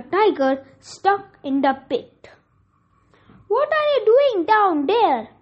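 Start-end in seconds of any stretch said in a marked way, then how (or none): 3.5-5.3 higher-pitched, mildly curious asking; puzzled question. A narrator's reading. Man asks a tiger stuck in a pit, puzzled question. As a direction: ask it with a lifted, falling tune. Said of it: "the man asked the tiger".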